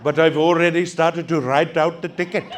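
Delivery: lightly voiced polite officer, a touch of laughing; prim, apologetic officer voice, mildly put on; a hint of a fussy rent-a-cop; parking officer.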